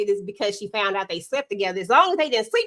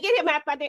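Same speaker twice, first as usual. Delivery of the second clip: acted angry outburst, higher pitch; 5 semitones higher than usual. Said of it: "I just would have went off on her".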